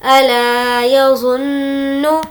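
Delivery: यज़ुन्नु with the doubled न humming nasally; ghunna on nnu. Shown as a demonstration. Teacher demonstrating ghunna on यज़ुन्नु for students. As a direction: hum the न्न in यज़ुन्नु. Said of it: "नून पर तजदीद है, गुन्ना होगा".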